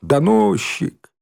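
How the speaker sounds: high, slow, drawn-out jeer; shouted taunts. A narrator's reading. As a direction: stretch out each name like a playground chant. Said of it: "выкрикивая".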